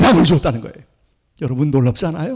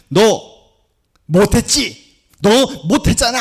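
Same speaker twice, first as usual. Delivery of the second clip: mock reproach in a higher voice; acted scolding; 5 semitones higher than usual. Preacher voicing the law's accusation, mildly scolding. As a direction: play the law telling someone off. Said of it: "막 야단 맞아요".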